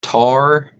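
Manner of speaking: tar said for tire, one syllable; Appalachian pronunciation. Shown as a demonstration. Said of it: "for the things that go in your car".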